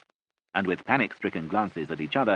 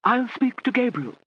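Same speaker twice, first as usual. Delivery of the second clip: louder, high and slow; quite loudly; 5 dB louder than usual. A narrator's reading. Lady Catherine promising the family, loud and slow. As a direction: say it firmly out loud. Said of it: "said Lady Catherine quite loudly".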